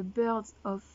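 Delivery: English title in a French accent. Real, not acted. Apologising to viewers for her English, French accent. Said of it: "désolée pour mon accent anglais".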